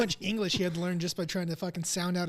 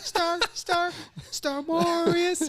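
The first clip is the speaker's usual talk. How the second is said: high, slow, grand name announcement; grand pronouncement; 12 semitones higher, 4 dB louder, much slower than usual. Pretend. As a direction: proclaim it like a royal title. Proudly repeats the family name.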